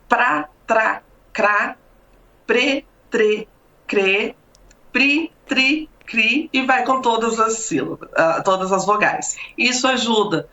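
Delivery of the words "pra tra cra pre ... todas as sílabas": crisp drill of pra, tra, cra, pre, tre, cre, pri, tri, cri; syllable drill. Shown as a demonstration. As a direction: clearly articulate each syllable pra, tra, cra as a diction exercise. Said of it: "Por exemplo".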